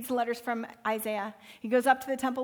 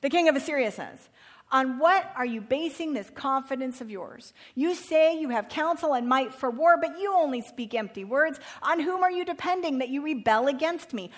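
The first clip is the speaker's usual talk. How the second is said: threatening field commander; 4 dB louder than usual. Acted. Assyrian commander taunting Hezekiah's men, loud and proud. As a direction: announce it like a conqueror's herald. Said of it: "this is what the field commander said".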